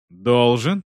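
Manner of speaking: icy, rising должен. Acted. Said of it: "ледяным голосом повторил он".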